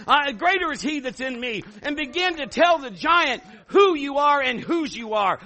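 high, loud preaching to the crowd; rally them, preach it out; full-force preaching. Acted. Pastor urging congregation to defy the giant, full-force preaching.

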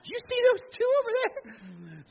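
high falsetto gossip voice; hammed-up gossiping bystander; nosy onlooker. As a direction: squeal like a nosy bystander in the parking lot. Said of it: "everybody in the parking lot would be like".

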